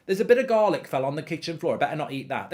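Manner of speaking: sarcastic imagined dog. Pretend. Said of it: "As if it bloody knows".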